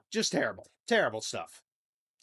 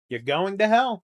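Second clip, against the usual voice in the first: a louder, higher mock damnation of "hell"; mock condemnation; 4 semitones higher, 5 dB louder than usual. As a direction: hammer "You're going to hell." as a mock curse.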